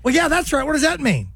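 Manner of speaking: high strained mock Connery. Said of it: "He goes".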